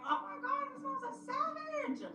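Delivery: very high squealed disbelief; mock shock. Shocked reaction to rude phone reply.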